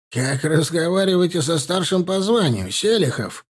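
acted officer's indignation; indignant. A narrator's reading. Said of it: "возмущённо подпрыгнул Рюмшин".

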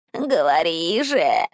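low, slow creaking crone voice; скрипи как древняя старуха; creaky old hag. A narrator's reading. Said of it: "проскрипел голос Энио". (скрипучий голос старухи)

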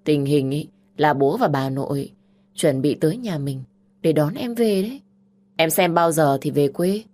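loud, pressing big sister; bossy sister laying out plans; pushy older sister. Acted. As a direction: push her to go back home.

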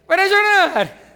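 a loud, high, slow punchline; emphatic exclamation. Real, not acted. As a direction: shout it out to the congregation. Preacher answers his own question. (¡exclamado fuerte, agudo y lento!)

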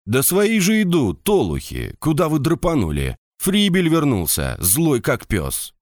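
high, urgent call to comrades. A narrator's reading. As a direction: shout after the runaways. Soldier calls out to fleeing comrades.

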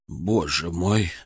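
slow, low, hushed disbelief; stunned. A narrator's reading. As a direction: let the shock sink in slowly. Doctor finds the tumour.

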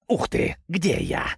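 high, slow, bewildered voice; surprised and scared. A narrator's reading. Snake comes back to himself, surprised and frightened, high and slow. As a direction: wake up startled, unsure where you are. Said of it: "удивлённый и испуганный голос змея".

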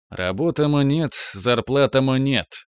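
mock broken Russian. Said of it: "сказал я наставительно".

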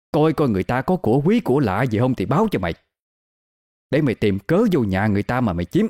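wronged woman's rising lament; aggrieved accusation. Acted. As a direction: build from accusation to high, desperate plea. Woman accuses him, plays the victim.

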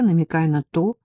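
ordinary delivery

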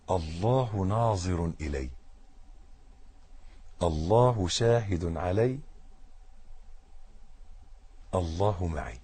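soft, slow, inward; quiet inner words. Retold or imitated. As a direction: murmur it like a private reminder. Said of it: "يقول له إيه؟".

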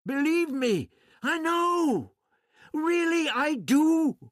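Barbara calmly assures the doctor, pitched well up; knowing woman. Acted. Barbara gently insists she knows.

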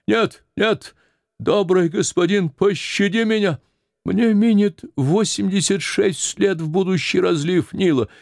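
put-on high, pleading old woman crying for mercy; terrified plea. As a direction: beg for life, rising to cries for help. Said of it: "закричала от страха". (старуха в страхе кричит, высоко)

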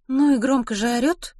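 high-pitched, impressed comment; mildly amazed remark. Acted. Ruth comments on the baby's crying, mildly amazed. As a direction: remark on it with some surprise.

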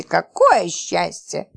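slow, drawn-out ironic relief; dry irony. Acted. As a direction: stretch it out sarcastically. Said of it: "заметил Роман". (медленно и иронично)

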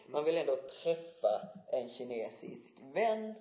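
"vän" stressed at the end of a slow phrase; slow down and lean on "vän". Real, not acted. Host asks how to meet a Chinese friend, stressing "vän". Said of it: "betoning på vän".

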